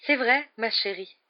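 Trelawney's mystic voice. A narrator's reading. Professor Trelawney lecturing her divination class, in a high, slow mystic voice. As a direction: intone it like a dreamy seer. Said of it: "un sourire ému".

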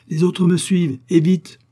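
high, loud urgent command; rally the men with force; barked order. A narrator's reading. Commissioner urging his agents to follow, barking orders.

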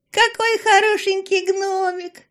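put-on girl gushing over a grumpy gnome, high and squealing; babbling with delight. A narrator's reading. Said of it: "лопотала она".

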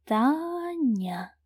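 drawn-out name. A narrator's reading. Сильвер протяжно повторяет имя девушки. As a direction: savour the name slowly. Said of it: "протяжно повторил мужчина".

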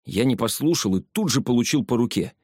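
ordinary delivery

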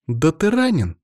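high exclaimed cry of concern; exclamation. A narrator's reading. Anna to her wounded colleague, exclaiming. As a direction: exclaim it on a high rising pitch. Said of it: "воскликнула она".

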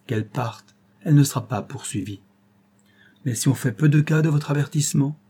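put-on Robert, a young lawyer, vowing with growing intensity; solemn resolve. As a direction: speak as a man sworn to pursue the truth. Robert's solemn vow speech.

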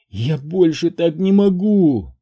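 high, slow despairing cry; anguished wife's cry; breaking down. A narrator's reading. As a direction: voice giving way under the strain. Wife at breaking point.

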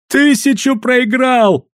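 slow, high cry of glee; delighted wailing yell. A narrator's reading. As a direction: whoop it out like a thrilled crowd. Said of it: "в восторге вопили торговцы".

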